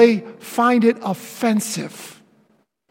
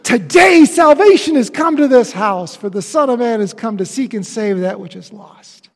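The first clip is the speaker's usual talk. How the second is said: voicing Jesus; 7 dB louder than usual. Preacher voicing Jesus at Zacchaeus's house, moved. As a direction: announce salvation with feeling. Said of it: "And Jesus going".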